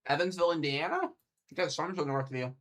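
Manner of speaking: talking through a mouthful of food; words round a bite, chewing; chewing while talking. Real, not acted. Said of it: "Sorry, guys. I'm trying to eat".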